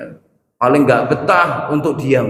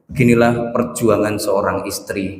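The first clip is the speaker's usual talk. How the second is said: mock caption read; 6 semitones lower than usual. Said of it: "dikasih tulisan".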